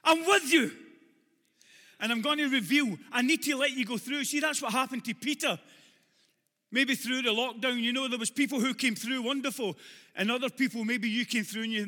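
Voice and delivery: loud climactic preaching with shouted questions; full-force preaching. Acted. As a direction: preach it hard to the back row.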